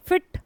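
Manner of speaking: फिट as one short beat; one single burst. Shown as a demonstration. Teacher checking syllables, फिट said in one go. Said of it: "एक बार में आया".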